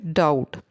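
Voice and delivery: डाउट said with no B sound; डाउट pronounced as "dowt", B dropped; silent B. Shown as a demonstration. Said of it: "यहाँ पे बी जो है ये silent है".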